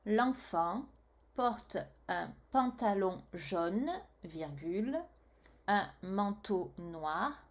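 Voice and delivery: slow, syllable-clear dictation; slow dictation reading. Acted. Teacher rereads the sentence to the pupil, slow dictation. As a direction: read it back slowly for a child to write.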